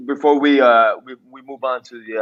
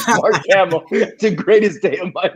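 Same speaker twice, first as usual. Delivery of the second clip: laughing imitation; 6 semitones higher than usual. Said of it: "this is coming out of a mouth".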